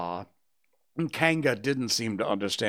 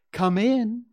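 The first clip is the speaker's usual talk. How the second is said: higher, louder motherly call; 12 semitones higher, 7 dB louder than usual. A narrator's reading. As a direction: sing it out towards the door. Kanga calls out to the door.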